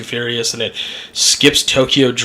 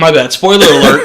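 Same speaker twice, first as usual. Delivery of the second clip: mock announcer; 6 dB louder than usual. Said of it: "Hand up for the spoiler alert".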